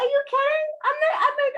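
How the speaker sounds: high, loud, laughing through it; laughing disbelief. Real, not acted. Recalling her outburst, laughing high and loud. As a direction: crack up mid-line.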